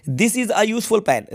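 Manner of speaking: reads "This is a useful pen" very slowly, every word separate; slow model reading. Shown as a demonstration. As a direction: dictate it slowly to the children. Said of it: "इसके पहले लगेगा ए". (धीरे-धीरे, हर शब्द अलग बोलते हुए)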